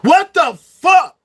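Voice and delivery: slow, loud disbelief; exasperated shout. Real, not acted. Ranting at people robbing the masses, slow exasperated shout. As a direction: hurl it out, fed up.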